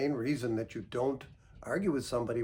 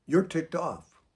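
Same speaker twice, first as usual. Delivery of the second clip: calm, even echo of their words; calm reflecting back; 3 semitones higher, 4 dB louder, slower than usual. Shown as a demonstration. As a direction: repeat it back gently, without mocking. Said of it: "what you can do is say".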